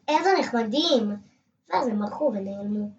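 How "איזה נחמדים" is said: higher, louder delighted cry; delighted shout. Acted. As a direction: shout with delight at the tiny hedgehogs. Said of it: "צעקתי". (צעקה נלהבת ומתפעלת)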